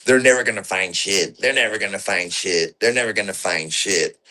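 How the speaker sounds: quiet, menacing repeated murmur; sinister voice. Retold or imitated. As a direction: say it like a creepy taunt. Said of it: "satanic, sinister voice and demeanor".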